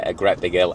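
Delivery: "hill" said as 'ill with no h sound; Lancashire h-dropping. Shown as a demonstration. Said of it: "That's the way we say it in Lancashire".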